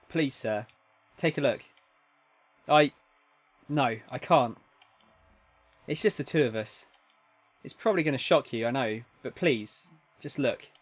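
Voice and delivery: measured read-aloud with lightly acted dialogue; understated visual novel narration; story narration. Reads game story, voicing characters.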